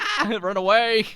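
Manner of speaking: high laughing yelp, run away; mock scared yelp. Kid fleeing mom's broom, mock scared yelp. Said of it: "I'm like".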